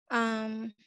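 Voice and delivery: soft nervous apology; quiet, jittery, apologetic; stage fright. Real, not acted. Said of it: "sorry, I'm nervous".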